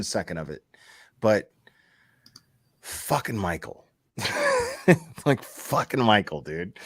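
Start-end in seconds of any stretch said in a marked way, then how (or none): 4.2-5.2 short high laugh. Real, not acted. Host venting about Michael, short exasperated laugh. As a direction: burst into a brief exasperated laugh.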